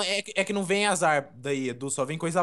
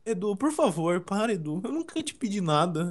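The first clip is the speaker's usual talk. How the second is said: hammed-up plea, higher pitched; mock pleading; 4 semitones higher than usual. Súplica teatral para Edu parar. (súplica dramática de brincadeira)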